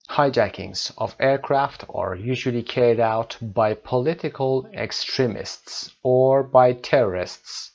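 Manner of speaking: reading the passage slowly and clearly; English teacher reading a passage at dictation pace; slow text reading. Shown as a demonstration. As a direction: read the text aloud for the class. Teacher reads the text aloud slowly.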